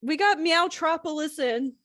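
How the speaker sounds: high, bright sales pitch voice; customer service voice. Acted. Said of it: "that customer service voice".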